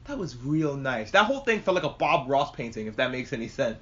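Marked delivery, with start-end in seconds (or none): 0.0-1.1 slow, voiced, savouring remark; slow appreciation. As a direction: say it slowly, stressing how nice. Repeats the hushed remark, voiced.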